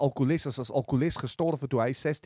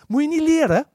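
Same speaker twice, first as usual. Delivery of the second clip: mock surprise; 11 semitones higher, 7 dB louder than usual. Mock surprise at friend's eagerness.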